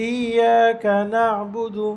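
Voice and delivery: "ইয়াকা না'বুদু" slow and even; natural reading. Shown as a demonstration. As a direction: say it plainly in recitation. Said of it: "স্বাভাবিক বলবে।". (স্বাভাবিক ধীর পাঠ)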